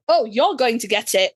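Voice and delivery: lightly over-enunciated mimicry, each word separate; Jared imitation. Retelling the actor teasing her accent, lightly mocking imitation. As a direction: spell out every word in mild mockery. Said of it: "in Jared voice".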